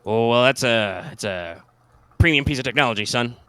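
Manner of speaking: lightly voiced folksy old soldier; old sergeant voice.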